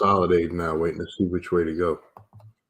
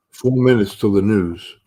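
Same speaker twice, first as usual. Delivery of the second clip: calling out; 3 semitones higher, 8 dB louder, slower than usual. Real, not acted. Countdown to market news.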